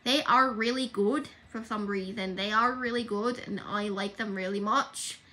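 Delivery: put-on amateur, light Irish accent; attempted Irish accent. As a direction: try an Irish lilt without quite managing it. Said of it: "with the Irish accent".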